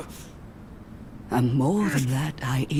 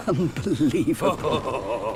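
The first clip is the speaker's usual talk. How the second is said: laughing scorn. Acted. She scoffs at his greed.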